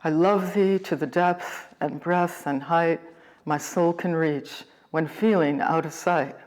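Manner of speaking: "I love thee to the depth" in alternating unstressed and stressed syllables; iambic pentameter. Shown as a demonstration. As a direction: lean lightly on "love", second syllable of each iambic foot. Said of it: "followed by one stressed syllable".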